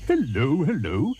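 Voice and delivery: high, bright hippo greeting; cheery hippo. Acted. Hippo greets the passing crocodile, high and cheery. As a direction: call out a friendly hello up high. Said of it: "said Humpy Rumpy".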